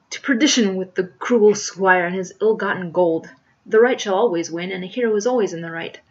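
loud, grandiose stage-hero oratory; virile declaiming. Acted. Hero Jack bids farewell to his love, declaiming virilely. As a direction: proclaim every vow at full strength. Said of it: "declaiming in appropriately virile accents".

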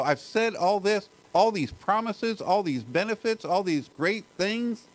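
a preacher lightly voicing Paul in awe; Paul voiced as speechless. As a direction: let Paul sound overwhelmed with nothing left to add. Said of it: "it's like he's speechless".

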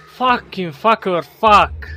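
slow loud furious curse; fed-up outburst; angry swearing. Real, not acted. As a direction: spit out the curses. Frustrated at dying.

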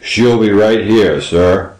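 put-on low, loud old man's voice; deep-voiced servile innkeeper; apologetic. A narrator's reading. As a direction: reassure the guest humbly. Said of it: "Pedro said apologetically".

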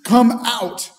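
preacher voicing Jesus summoning the dead man; loud call. A narrator's reading. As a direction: call out across the tomb. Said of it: "Jesus called in a loud voice".

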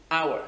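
Hour begun on the vowel, like "our"; silent h. Shown as a demonstration. Teacher showing a pupil the mute letter, silent h. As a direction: say Hour with no h at all.

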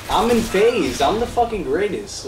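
boasting. Real, not acted. Boasting after a win.

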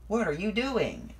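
high, slow astonished question; crying out. A narrator's reading. Thomas finds Boko hiding, astonished cry. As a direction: ask it high, drawn out in disbelief. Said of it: "cried Thomas".

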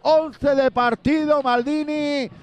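high, slow, emphatic celebration; excited goal recap. Real, not acted.

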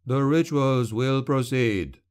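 slow, steady reassurance; calm him with slow certainty; assuring. Acted. Shadow assuring Carandini the rituals continue, slow and reassuring. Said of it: "the shadow assured Carandini".

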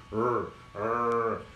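low growled English r; angry-dog growl. Shown as a demonstration. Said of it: "som de cachorro bravo".

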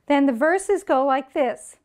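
whisper. Real, not acted. Whispered aside.

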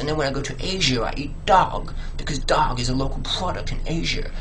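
lightly put-on voice of a self-satisfied foodie; mock fussy locavore. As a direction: lightly parody a sophisticated eater. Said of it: "People say".

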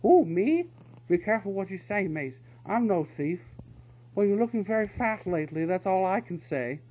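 high, loud bickering weasel guards; two weasels snapping at each other; heated weasel squabble. A narrator's reading. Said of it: "They were arguing heatedly".

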